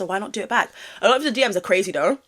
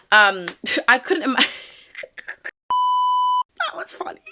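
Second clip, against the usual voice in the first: laughing; 12 semitones higher, 3 dB louder, much slower than usual. Real, not acted. Cracks up at own slip.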